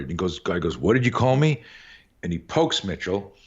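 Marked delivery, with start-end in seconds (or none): 0.8-1.6 higher-pitched, mock confrontational demand; confrontational challenge. Bully challenging the boy he tripped, confrontational. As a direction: act out an affronted challenge, lightly heated.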